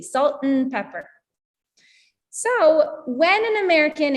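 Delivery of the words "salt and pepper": "salt and pepper" run together, "and" just n; quicker linked "salt 'n pepper"; said quickly. Shown as a demonstration. Teacher just saying it quickly, "and" shrunk to n. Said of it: "I'm just saying it quickly".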